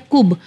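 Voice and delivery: کب with an echoing, bounced ب; کب with a clear qalqala echo; qalqala bounce. Shown as a demonstration. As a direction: let the ب of کب bounce. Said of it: "کلکلا کا قانون آ گیا".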